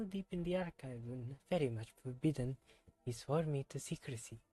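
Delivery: put-on reading the character's lines in a self-admitted terrible French accent. Streamer voicing a game character, bad French accent. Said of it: "my terrible French accent".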